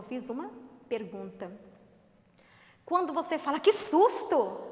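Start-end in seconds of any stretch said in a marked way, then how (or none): 3.6-4.6 slow, drawn-out gasp of fright; mock shock for the class; startled exclamation. Shown as a demonstration. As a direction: act startled, stretching it out. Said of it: "é exclamação".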